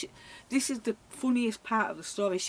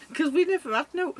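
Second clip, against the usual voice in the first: laughing; 9 semitones higher, 8 dB louder than usual. Retold or imitated. Friend laughing while retelling.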